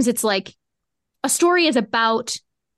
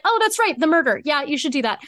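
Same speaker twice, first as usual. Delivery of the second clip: mock realization; 4 semitones higher than usual. Retold realization.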